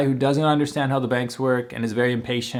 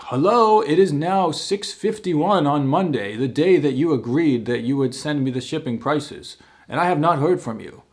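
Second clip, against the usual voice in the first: over the top reply; 3 semitones higher than usual. Retold or imitated. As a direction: ham up a pompous, stilted text message. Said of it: "like, kinda, like, over the top reply".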